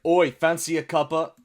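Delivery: British "oi" caricature; mock British accent. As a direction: put on a cheeky British accent. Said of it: "British people be like".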